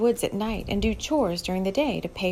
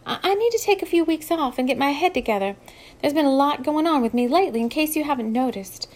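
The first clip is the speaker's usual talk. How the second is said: nervous; 6 semitones higher, faster than usual. Acted. Moxie asks for time off.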